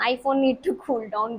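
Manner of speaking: very slow, mock robotic echo of "iPhone need to cool down"; lightly imitated phone alert, repeated; phone's warning voice repeated. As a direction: spell it out again like a stubborn machine. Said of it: "फिर वो कहता है".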